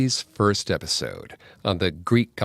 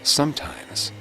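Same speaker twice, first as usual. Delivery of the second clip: measured ghost-story telling with long pauses; eerie story narration. A narrator's reading. Host telling the legend of Devil's Kitchen, eerie narration.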